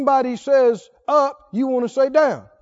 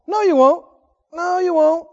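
higher, scoffing retort; contradicting; 6 semitones higher, 4 dB louder than usual. Retold or imitated. Preacher acting out a contradicting attitude, scoffing. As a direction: toss back a smug denial.

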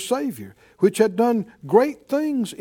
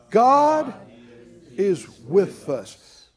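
said out loud; 5 dB louder, much slower than usual. Shown as a demonstration. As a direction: proclaim "God" with force, then settle. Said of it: "somebody just say that out loud".

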